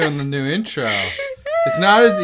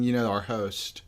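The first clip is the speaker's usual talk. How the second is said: whisper; 6 semitones lower, 8 dB quieter than usual. Real, not acted. Whispered aside about sponsor.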